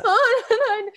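high, loud baffled huh; a high, loud, puzzled question; confused huh. Retold or imitated. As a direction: sound totally lost. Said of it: "And I was like".

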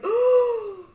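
stunned little oh; audible shocked oh. Retold or imitated. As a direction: let the shock slip out. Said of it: "I audibly was like".

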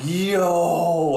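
loud, high "Yo!" to stop her; sharp call. Retold or imitated. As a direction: yell it to halt a kid. Calling out to stop niece.

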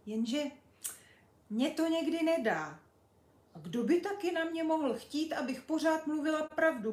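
put-on a cheeky girl showing off her travels; Pipi boasting. Pipi explains her lying.

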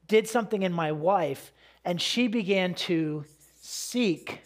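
slow, halting, choking up; really welling up, words coming slowly; close to tears. Real, not acted. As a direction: fight back real tears, pausing to hold it together. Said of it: "I'm gonna start crying about it".

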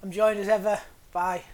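dead flat robotic delivery. Real, not acted. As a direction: read it like a robot. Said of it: "Why did you say that in a dead robotic a-, voice then?".

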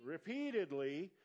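very slow, deliberate reading of each word. Shown as a demonstration. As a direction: read it out slowly for the church. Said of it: "I'm gonna read this real slow".

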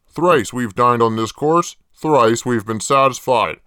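low, deadpan killer-pitchman voice; creepy ad host. Acted. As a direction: sell it flat and low like a sinister ad.

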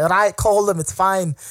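lightly put-on Scottish woman's voice; a hint of mock Scottish accent. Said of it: "very Scottish accent".

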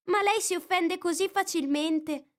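put-on young girl's voice pitched high, eager; a curious girl asking for a story; Alice. A narrator's reading. Curious girl reminding the mouse of his promise, lightly voiced.

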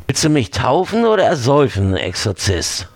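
fast, high, angry sneer; angry taunt. Acted. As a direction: snap at him mockingly. Angry demon mocks the exorcist. (wütend spöttisch)

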